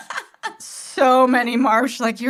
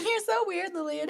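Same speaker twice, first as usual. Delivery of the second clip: mocking voice; 8 semitones higher, 7 dB quieter than usual. Mocking a bully's taunt.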